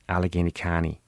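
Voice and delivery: Allegheny County in a light Pittsburgh accent, T in County dropped. Shown as a demonstration. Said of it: "my fellow Pittsburghers might say something like".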